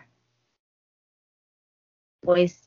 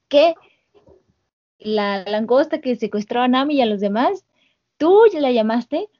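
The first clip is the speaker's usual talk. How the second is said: dismayed Sanji; 4 semitones higher than usual. Retold or imitated. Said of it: "Sanji muy, este, consternado".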